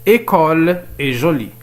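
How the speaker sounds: École est jolie read slowly as one sentence; measured reading. Shown as a demonstration. Teacher reading an exercise to learners, measured reading.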